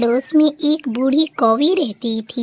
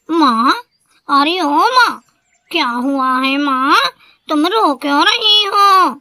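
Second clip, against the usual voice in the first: higher, louder son calling anxiously for his mother; worried son; 3 semitones higher, 4 dB louder than usual. A narrator's reading. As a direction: rush to your crying mother. Son finds mother crying. (घबराए बेटे की ऊँची पुकार)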